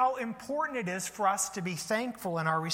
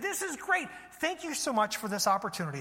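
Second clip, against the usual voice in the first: thankful servants; 3 semitones higher than usual. Acted. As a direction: exclaim it, pleased and thankful. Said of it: "they were thankful for the opportunity".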